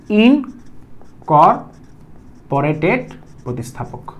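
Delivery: ইনকর্পোরেটেড প্রতিস্থাপক drawn out very slowly and softly; slow emphasis. Shown as a demonstration. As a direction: stretch the term so it sinks in. Teacher drills the key term. (ইনকর্পোরেটেড প্রতিস্থাপক খুব ধীরে টেনে টেনে)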